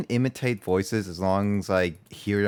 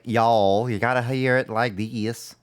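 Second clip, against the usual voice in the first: goofy southern accent. Shown as a demonstration. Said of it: "that sounds like a really goofy".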